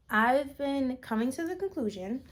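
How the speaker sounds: talking between burps; burping. Real, not acted. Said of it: "y'all, keep burping".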